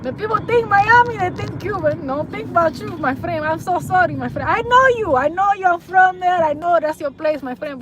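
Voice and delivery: lightly put-on Spanish-accented English. Telling Jamaicans "I know you", light Spanish accent. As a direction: soften it with a hint of a Spanish accent.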